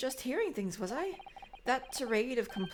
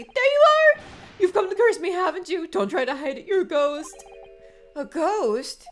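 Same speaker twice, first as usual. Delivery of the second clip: much louder, higher accusing yell; terrified shout; 6 semitones higher, 13 dB louder than usual. Acted. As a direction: scream at the ghost come to curse him. Prisoner accuses visitor of ghost.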